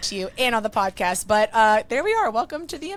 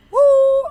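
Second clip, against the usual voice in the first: loud, high "woo" cheer; excited whoop; 11 dB louder than usual. Real, not acted. Host cheers the guest in.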